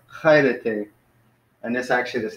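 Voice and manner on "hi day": "Hi day" as Greek "KHAI-reh-tay"; Greek plural greeting. Shown as a demonstration. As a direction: demonstrate "Hi day" with a kh start and an added plural syllable. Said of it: "So now it's".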